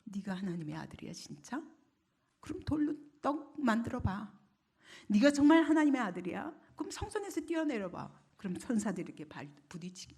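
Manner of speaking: lightly acted taunting questions, mostly hushed; mocking devil. Devil tests Jesus in the wilderness, mildly mocking. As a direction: needle them with doubting challenges. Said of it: "마귀는 계속 조롱합니다".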